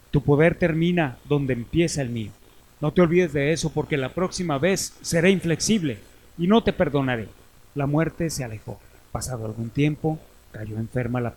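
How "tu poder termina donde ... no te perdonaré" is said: louder, menacing threat; grim reaper voice. Acted. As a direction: lay down the law as Death. Death threatens the godson.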